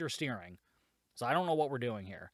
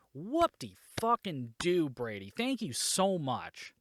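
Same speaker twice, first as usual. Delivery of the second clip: sarcastic; slower than usual. Real, not acted. Sarcastic jab at the movie character.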